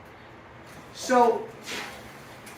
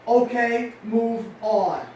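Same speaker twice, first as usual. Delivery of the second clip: firm self-command; 5 dB louder, much slower than usual. Shown as a demonstration. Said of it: "the most common of all movers".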